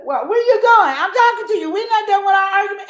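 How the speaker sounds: high, loud, hammed-up nagging; mock-furious partner chasing him down; angry demanding partner. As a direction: yell after him as he walks off. Partner chasing after argument.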